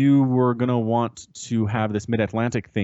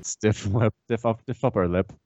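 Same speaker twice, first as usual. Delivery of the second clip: mock British. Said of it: "an American trying to be British".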